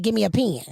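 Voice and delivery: PEN as country "pee-in". Retold or imitated. Host showing cohost her request, PEN as country "pee-in". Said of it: "Mine's was country".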